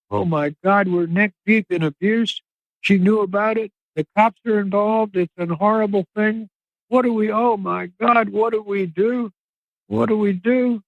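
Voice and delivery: imitating frightened men who don't know what to do; retold panic. Acted panic after woman stops breathing.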